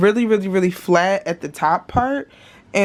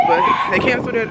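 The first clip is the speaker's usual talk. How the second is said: laughing; 4 semitones higher, faster than usual. Real, not acted. Exasperated about cancelled order.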